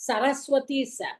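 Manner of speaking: ச in சரஸ்வதி as a plain hissed s; Saraswati sa. Shown as a demonstration. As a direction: say சரஸ்வதி with a clean s sound. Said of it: "மூணாவது ச".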